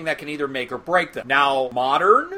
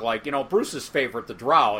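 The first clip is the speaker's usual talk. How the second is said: smiling voice; 5 semitones lower than usual. Real, not acted. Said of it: "you can probably hear the smile on my voice".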